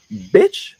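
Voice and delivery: high, loud retort; retold dismissal. Retelling what they said at the last meeting, high and loud. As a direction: throw it out loud and high-pitched.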